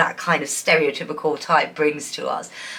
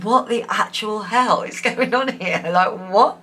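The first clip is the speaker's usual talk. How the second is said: laughing mock disbelief; 3 semitones higher than usual. Imagined reaction, laughing mid-quote.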